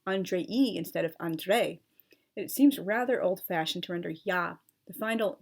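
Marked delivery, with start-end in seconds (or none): 0.1-1.8 Andrei said slowly, two different ways; slow side-by-side demo of Andrei; pronunciation contrast. Shown as a demonstration. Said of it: "pronounced differently".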